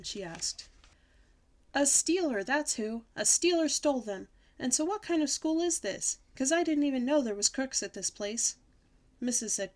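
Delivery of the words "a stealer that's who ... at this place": high, emphatic huffy protest; indignant child. A narrator's reading. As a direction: protest loudly at the injustice. Child indignantly answers the teacher.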